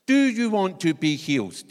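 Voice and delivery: asked straight out, loud; Jesus putting the question firmly to the man, loud and direct. Retold or imitated. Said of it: "Jesus actually says to him".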